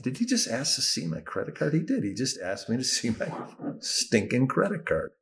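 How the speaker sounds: mock-outraged inner voice; incredulous. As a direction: think it in rising disbelief. Disbelieving inner reaction to card demand.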